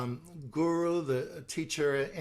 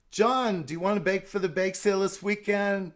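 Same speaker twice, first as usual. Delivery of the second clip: pushy church friend; 4 semitones higher, 4 dB louder, faster than usual. Shown as a demonstration. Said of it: "sensitive assertion".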